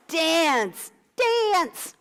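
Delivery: Dance said the Midwest way; flat American Dance with a plain a; Midwest accent. Shown as a demonstration. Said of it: "My Midwest accent".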